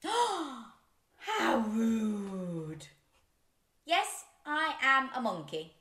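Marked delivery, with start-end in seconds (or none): 3.9-5.7 shout. Pretend. Forced by book, shouts.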